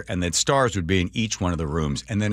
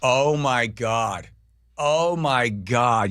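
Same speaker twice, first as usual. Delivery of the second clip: slow, higher-pitched imitated amazement; amazed recognition; 4 semitones higher, much slower than usual. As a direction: stretch out each exclamation in astonishment. Acting clerk's amazed recognition.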